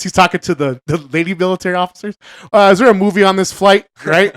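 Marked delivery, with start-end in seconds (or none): 2.5-3.9 higher, louder polite goofy voice; John Candy's voice. Retold or imitated. John Candy quoted calling the officer, higher goofy voice. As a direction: call out politely, like a clueless passenger. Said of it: "John Candy comes walking up".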